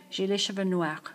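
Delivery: "noirs" said with no S sound at the end; silent S. Shown as a demonstration. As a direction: leave the final S of "noirs" silent. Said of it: "although you don't pronounce it".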